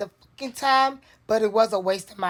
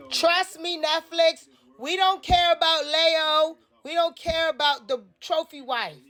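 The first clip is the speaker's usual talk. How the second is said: pleading with Netflix; 5 semitones higher than usual. Real, not acted. Begging Netflix directly.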